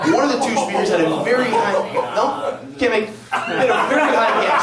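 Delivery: badly faked German accent; rough German accent. Speaker mimicking colleague with gas bill, high German accent. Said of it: "I don't do a great German accent".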